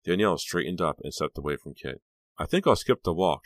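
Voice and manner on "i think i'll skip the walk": forced casual. Acted. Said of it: "trying to sound casual".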